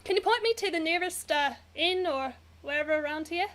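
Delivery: put-on Australian accent. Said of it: "keep talking in it".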